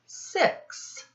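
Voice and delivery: a breathy whisper on the number six. Acted. Teacher to children counting fingers, whispering the six. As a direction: whisper it like a little secret.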